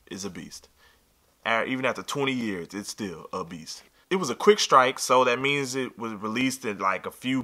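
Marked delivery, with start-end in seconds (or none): 0.1-0.7 hushed, whispered admiration; awed whisper. Real, not acted. Savoring the shoe in awe. 2.7-3.8 slow, low, very soft admiration; hushed awe. Real, not acted. Repeats the awed praise of shoe.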